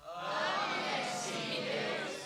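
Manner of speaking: slow, high drawn-out shout of yes he will; panto shout. Acted. Pantomime call to the audience, slow high shout. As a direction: stretch it for the panto crowd.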